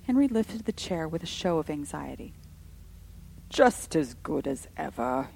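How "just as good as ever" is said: slow, soothing reassurance; smooth it over pleasantly. A narrator's reading. Henry lifting Edward's chair, pleasantly reassuring his sisters. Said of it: "he said pleasantly".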